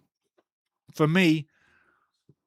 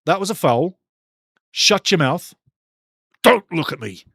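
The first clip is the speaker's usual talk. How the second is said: stern, louder referee's warning; stern Collina; 5 dB louder than usual. Retold or imitated. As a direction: tell the player off like a strict referee. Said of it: "He'd be like".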